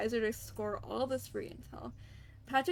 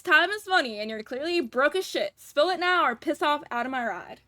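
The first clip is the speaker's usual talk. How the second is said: a touch of a rude, impatient broker, louder; lightly voiced sneering boss; mild Kaiser voice; 5 semitones higher, 8 dB louder than usual. Broker telling the visitors to spill it, lightly voiced. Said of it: "like, nasally voice".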